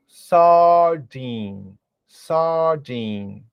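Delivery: sardine with a long drawn-out A, sadi; stretched A. Shown as a demonstration. Teacher exaggerates the vowel in sardine for the student. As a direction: hold the A in sardine a beat longer. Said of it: "pronuncia um pouco mais o A".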